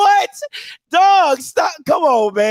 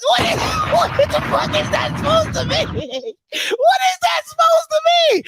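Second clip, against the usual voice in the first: incredulous laughing shout; 10 semitones higher than usual. Real, not acted. Reacting to the coach's pitch, shouting through laughter. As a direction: laugh it out in total disbelief.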